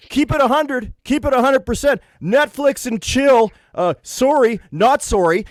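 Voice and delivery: high mocking millennial voice. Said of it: "It's like".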